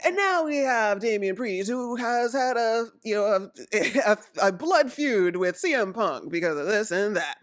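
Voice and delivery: lightly voiced commentator introducing a contender; a hint of announcer patter, breaking with amusement; imitated announcer commentary. Imitating announcers on Damian Priest's blood feud, lightly voiced commentary. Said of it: "announcers are, you know, doing their commentary".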